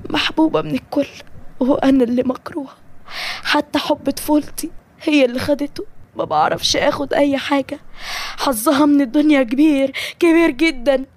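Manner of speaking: mildly bitter, envious complaint; bitter envy. Acted. Jealous girl complaining of her rival's luck, mildly bitter. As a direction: let a touch of jealousy rise in the voice.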